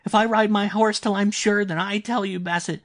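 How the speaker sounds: put-on high, loud, delirious boy's outburst; feverish excitement. A narrator's reading. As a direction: cry out in frantic, high-pitched triumph. Feverish boy's frantic triumphant outburst.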